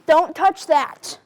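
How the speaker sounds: slow, firm scolding; firm warning. Acted. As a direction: warn the guest off, word by word. Anchor scolds guest touching things.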